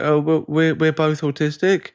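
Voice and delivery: lightly voiced innocent wife; a touch of wide-eyed innocence. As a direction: say it sweetly and without guile. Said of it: "like, so innocent".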